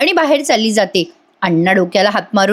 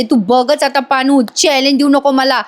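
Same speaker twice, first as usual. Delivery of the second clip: Payal angry; 3 semitones higher than usual. Retold or imitated. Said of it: "पायलला राग येतो".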